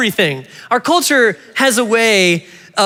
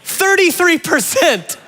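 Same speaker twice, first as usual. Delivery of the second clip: higher, slow disbelief; shocked reveal; 8 semitones higher, slower than usual. Real, not acted. Pastor revealing a shocking poll number, slow and higher. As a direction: let the number land slowly.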